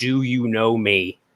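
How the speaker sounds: normal talking voice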